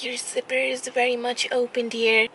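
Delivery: lightly voiced polite old lady; a hint of a gentle granny. Old lady points out zipper.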